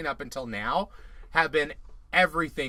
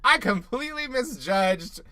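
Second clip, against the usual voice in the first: higher, drawn-out sarcastic quote; 6 semitones higher, slower than usual. Retold or imitated. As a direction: imitate her sarcastic admission, slowly. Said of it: "she said it real sarcastic".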